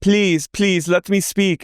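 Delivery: high mock plea to speak; imitating a pleading castmate. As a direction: beg to be heard, high and thin. Mimicking Wild Rose begging.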